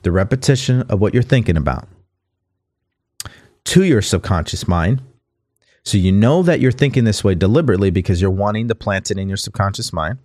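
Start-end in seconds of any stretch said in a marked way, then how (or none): 3.6-5.0 deliberate, measured reading; slowed-down reading. Shown as a demonstration. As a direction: read it slowly for listeners to absorb. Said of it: "slow it down so you guys can pick it up".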